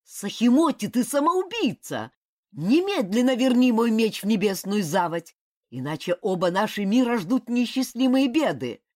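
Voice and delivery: громко и выше, с угрозой; требуй меч назад, гремя; гневный окрик. A narrator's reading. Разгневанный брат требует меч. (гневный крик бога ветра)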